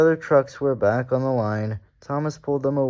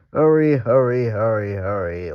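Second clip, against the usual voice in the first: laughing; 6 dB louder than usual. A narrator's reading. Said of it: "laughed Gordon in front".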